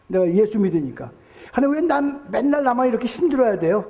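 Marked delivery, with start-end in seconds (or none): 1.5-3.8 higher-pitched imitated protest; complaining to God. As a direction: voice a believer's raised, aggrieved question. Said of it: "그런 얘기 많이 하죠".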